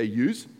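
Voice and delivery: "yous" with a z sound on the end; "yous", rhyming with "news"; Bogan plural "yous". Shown as a demonstration. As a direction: say "yous", the slangy plural of you. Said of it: "you say".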